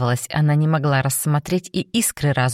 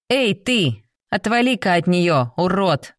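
defiant shout; 3 semitones higher than usual. Acted. Jenny challenges the wolf.

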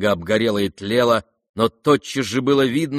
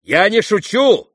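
insistent exclaim; 11 semitones higher, 7 dB louder than usual. Acted. Character exclaims in novel reading.

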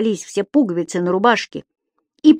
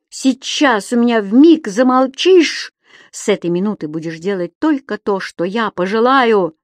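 гневная угроза; 3 semitones higher, 3 dB louder than usual. Acted. Дауме в гневе грозит.

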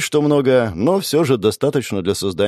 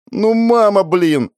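put-on much higher, louder kid's whine; whiny child; 11 semitones higher, 5 dB louder, slower than usual. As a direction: whine like a sulky schoolboy. Childish whining at mum. (писклявое детское нытьё)

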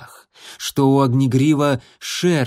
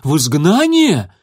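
louder, higher cry of dread; horrified; 4 semitones higher, 7 dB louder than usual. A narrator's reading. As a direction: gasp it out in horror. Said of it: "прозвучал неподдельный ужас".

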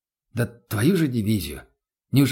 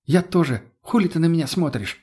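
put-on higher pitched young woman snarling back; Lena snapping back; 5 semitones higher than usual. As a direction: snap it at him, annoyed and higher. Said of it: "огрызнулась Лена". (огрызается, голос выше)

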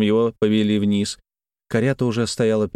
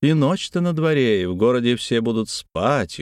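plain reading voice

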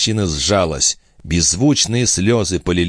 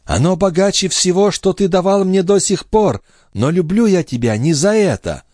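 put-on higher, tender young woman's voice; young wife in love, voiced higher; loving young wife; 12 semitones higher than usual. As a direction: speak as the devoted wife. Lorenza speaks, much higher.

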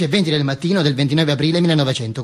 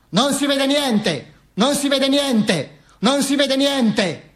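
high, stretched-out crowd call; crowd complaint cry; 8 semitones higher, much slower than usual. Acted. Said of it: "gridava la gente". (grido di folla, acuto e strascicato)

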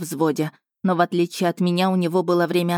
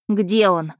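shouted demand; 2 semitones higher, 3 dB louder than usual. Acted. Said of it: "выкрикнула я".

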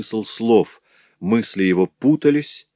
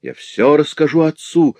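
higher, louder cry; 7 semitones higher, 4 dB louder than usual. A narrator's reading. Louise defying her master, crying out. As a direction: shout the threat at him. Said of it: "крикнула я".

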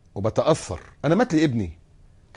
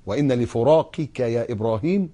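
tender grief; slower than usual. Acted. Quoting Prophet's grief.

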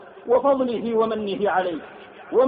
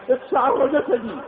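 usual speaking voice

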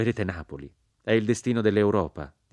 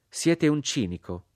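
higher, slow, cutting reproach; scornful accusation; 9 semitones higher, slower than usual. Acted. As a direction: condemn him with disdain. Mrs Flett accuses the narrator.

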